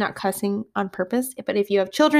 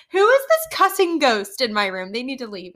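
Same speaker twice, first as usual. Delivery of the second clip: higher, mock-exasperated question; 4 semitones higher than usual. Teacher hearing cussing for six days, exasperated. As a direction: act out comic bafflement.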